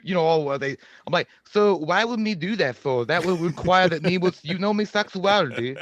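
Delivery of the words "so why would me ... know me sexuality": Slender Man. Acted. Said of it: "you should start doing Slender Man to people".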